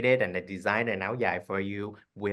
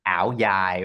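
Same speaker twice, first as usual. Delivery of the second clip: ao dai in an imitated central Vietnamese Hue accent, lower pitched; 3 semitones lower, 4 dB louder than usual. Shown as a demonstration. Designer guessing how the guest's mom says it, imitated Hue accent. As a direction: imitate Hue's way of saying "ao dai". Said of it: "they would say it with a Hue accent".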